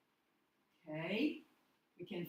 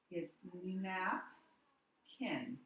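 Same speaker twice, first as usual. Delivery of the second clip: napkin with stress on the first syllable, NAP-kin; much slower than usual. Shown as a demonstration. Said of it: "The stress is on the first syllable".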